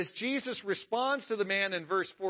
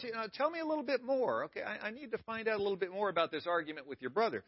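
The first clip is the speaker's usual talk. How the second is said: mock patient inquiry; 3 semitones higher, 5 dB quieter, faster than usual. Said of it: "Jesus didn't ask the man for more details".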